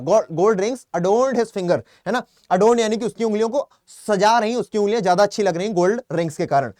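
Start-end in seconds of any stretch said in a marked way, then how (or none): 0.0-1.8 each word of the sentence said very slowly; slow model sentence. Shown as a demonstration. Teacher slowly modeling the example sentence for students. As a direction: read it word by word for them to copy. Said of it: "इसको भी बोलो एक बार".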